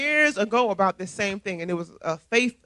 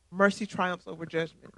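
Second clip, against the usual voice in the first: softer, letting it sink in; soft repeat; 6 dB quieter than usual. Shown as a demonstration. Preacher repeating the verse to the flock, softly. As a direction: say it again, softer.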